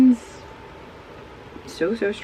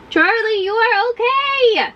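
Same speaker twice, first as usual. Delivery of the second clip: calling to the dog; much slower than usual. Real, not acted.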